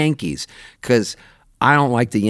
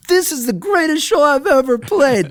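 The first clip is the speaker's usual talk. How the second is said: stage announcement. Retold or imitated. Singer on stage telling the audience, high hyped shout. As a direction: hype the crowd from the stage.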